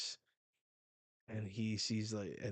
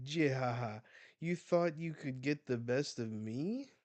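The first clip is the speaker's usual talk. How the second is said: mock villain laugh and taunt; lightly voiced villain; 3 semitones higher, 3 dB louder than usual. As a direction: taunt them, pitched up, play-acted.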